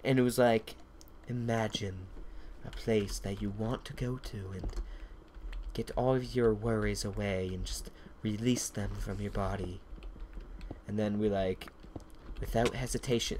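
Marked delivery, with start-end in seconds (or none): 1.3-9.8 lightly voiced soft, guided-relaxation narrator; mildly sultry recording, imitated softly; erotic audiobook. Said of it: "It sounded like an erotic novel". 12.4-13.4 lightly imitated audiobook narrator; a touch of sultry recorded narration; mock relaxation-tape voice; erotic audiobook. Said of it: "It sounded like an erotic novel".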